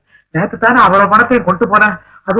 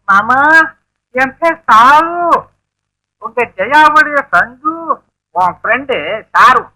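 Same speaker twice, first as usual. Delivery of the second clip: fake girl voice; slower than usual. Son poses as girl on phone.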